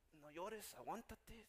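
very soft, holding back tears; choked-up self-talk. Acted. Preacher telling himself to hold it in, quietly choked up. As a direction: hush yourself so you don't cry. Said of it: "se me empieza a quebrar la voz".

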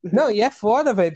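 ordinary delivery

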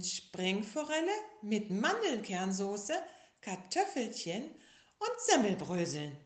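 slow, loud, savouring each word; dreamy tiger. Acted. Tiger tells bear his favourite food, slow and savouring. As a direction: dream of the dish aloud.

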